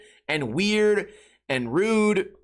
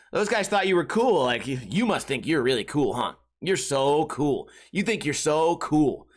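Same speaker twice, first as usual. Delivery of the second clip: mocking, condescending; 2 semitones lower than usual. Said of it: "getting rude for no reason".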